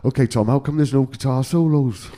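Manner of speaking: lightly put-on Welsh accent. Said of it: "Is that a good Welsh accent?".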